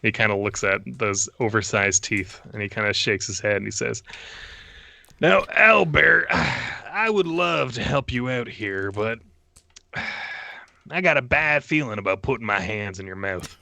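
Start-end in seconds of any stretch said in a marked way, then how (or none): 5.2-13.6 Quint sighing. Acted. Quint declines to reach into Owlbear's mouth, sighing. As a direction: let the sighs carry the refusal.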